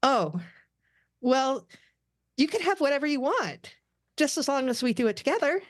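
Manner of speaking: high, flirty and shy; quick at the end, eager; bashful Anya. A narrator's reading. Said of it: "She looks nervous and bashful".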